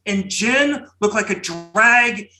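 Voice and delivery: dramatic booming poetry recitation. Pretend. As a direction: boom it out like a grand old poet. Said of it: "my most outlandish Berryman-esque booming voice".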